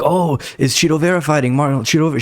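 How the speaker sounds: high, eager mock fan voice; a hammed-up excited pharmacy clerk; fired-up fan. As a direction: imitate her getting fired up about the fighter. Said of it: "She, like, got fired up".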